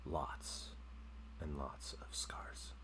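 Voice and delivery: game master scene setting. Acted. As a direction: let each image hang before the next.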